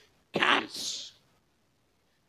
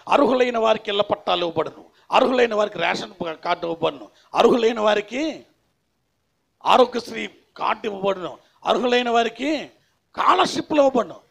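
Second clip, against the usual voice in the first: government announcement; 5 semitones higher, 9 dB louder than usual. Acted. Preacher mimics government notice of benefits for the eligible, announcing loudly. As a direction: imitate a loud public notice, higher pitched.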